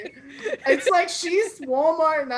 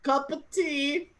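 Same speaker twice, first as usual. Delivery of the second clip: slow, higher comic British accent; attempted British accent; 5 semitones higher, slower than usual. Shown as a demonstration. Host showing off accents to the audience, attempted British accent. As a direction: draw it out in a token British accent. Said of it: "now my British one".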